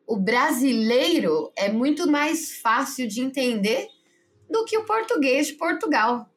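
slow, drawn-out "brasileiro", then climbing in pitch; pointed retold remark. Retelling the driver's language remark, pointed and deliberate. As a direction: mimic him making a pointed comparison. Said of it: "Ele disse assim".

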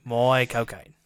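low mock-Cockney name; Michael Caine. Co-host repeating the name gag, low impression. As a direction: do a broad bad actor impression. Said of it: "that's the other one".

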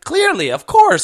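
sarcastic falsetto agreement; mock sarcastic squeal. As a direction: sing it up high, loud and slow. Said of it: "I'm like".

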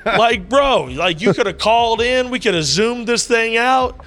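high, loud, laughing disbelief; laughing brag. Real, not acted. Joking with the host who flew from Florida, laughing. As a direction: tease the host through laughter.

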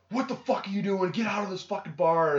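high-pitched mock outrage; retold angry yelling. Bar owner ordering him out, mock angry yell. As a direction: imitate an irate owner throwing someone out. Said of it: "why are you yelling at me?".

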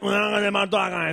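fast, shouted Alicante accent; quick yelled Alicante local accent; Alicante accent demo. Shown as a demonstration. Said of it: "el acento alicantino es".

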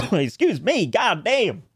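cough, then curse it off; choking on a drink. Real, not acted. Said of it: "went down the wrong hole".

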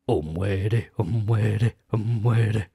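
mock Spanish accent, short phrase chanted over and over. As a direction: repeat it in a hammed-up Spanish accent. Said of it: "give us your best Spanish accent".

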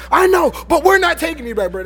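defiant frat guy yelling back; frat bro. Retold or imitated. Voicing Max's reply.

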